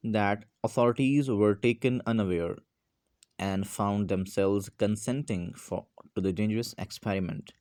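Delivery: slow, deliberate reading of the text; slow reading aloud. Acted. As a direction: read each word slowly for the class. Reads English text aloud.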